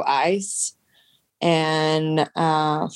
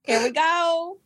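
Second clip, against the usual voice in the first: high excited voice; 12 semitones higher, slower than usual. Pretend. Echoes in high put-on voice.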